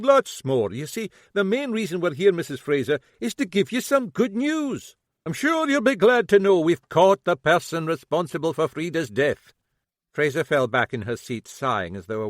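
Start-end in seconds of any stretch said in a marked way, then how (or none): 0.0-9.5 grinning. Acted.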